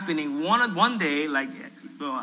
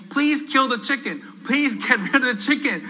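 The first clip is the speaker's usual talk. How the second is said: high, louder mock plea; imitating begging neighbours; mock pleading; 8 semitones higher, 4 dB louder than usual. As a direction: plead like desperate residents, playfully. Residents' pleading emails acted out.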